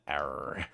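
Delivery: low, quiet growled "err"; low animal growl. Retold or imitated. Streamer re-enacting noise made in friend's chat, animalistic growl. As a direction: growl it softly, deep down. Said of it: "I just said".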